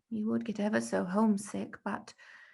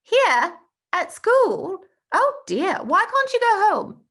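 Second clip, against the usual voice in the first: put-on much higher, louder shocked boy; schoolboy shocked for his friend; shocked disbelief; 12 semitones higher, 10 dB louder than usual. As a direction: gasp it out in disbelief. Bertie shocked at Tom's news.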